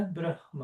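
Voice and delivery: Brahma said softly, H lightly breathed before the M; aspirated H. Shown as a demonstration. Teacher confirms how they learned it, aspirated H. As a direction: quietly model Brahma with a breathed H. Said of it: "É, eu aprendi assim".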